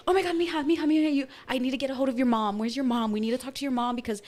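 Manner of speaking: rushed, urgent relative on the phone. Retold or imitated. Aunt calling niece about someone in hospital, urgent. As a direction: blurt out bad news in a hurry.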